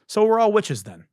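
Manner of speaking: high, amused witch remark; mock witch squeal. Host mocking the spelling theory, high and squeaky.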